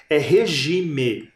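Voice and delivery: the rhyme word drawn out slowly; slow demo word. Shown as a demonstration. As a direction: say regime slowly so pupils hear the rhyme. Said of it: "A segunda que rima com time".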